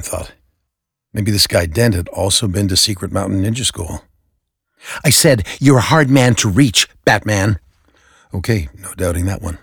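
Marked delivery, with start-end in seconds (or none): 5.0-7.6 louder, pressing repeat of the greeting; insistent repeat. Acted. Dent repeating himself to Batman, louder and pressing. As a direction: lean on hard, demand an answer.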